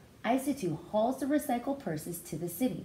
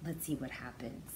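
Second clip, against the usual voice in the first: hushed whisper; breathless storyteller whisper; whispered aside; 7 semitones lower, 9 dB quieter than usual. A narrator's reading. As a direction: whisper it like a secret to the class. Teacher reads story aloud, hushed.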